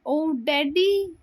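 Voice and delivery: startled gasp of a call; girl startled by her father's arrival, frightened and high; scared cry. Acted. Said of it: "पायल आणि नमी घाबरून उठतात".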